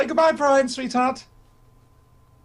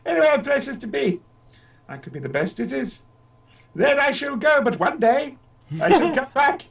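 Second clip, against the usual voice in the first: a lightly voiced old man, sly and grandly polite; old Doctor announcing his return, a touch theatrical; Billy Hartnell voice; 3 semitones higher than usual. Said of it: "my Billy Hartnell voice".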